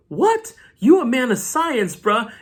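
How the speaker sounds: real shock at a silly idea; real disbelief. Real, not acted. Reacting to a dumb plot twist.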